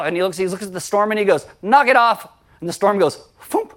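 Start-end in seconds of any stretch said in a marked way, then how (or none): 1.6-2.3 firm rebuke. Acted. Jesus rebuking the storm. 3.4-3.7 storm cut-off noise. Acted. Storm suddenly stopping.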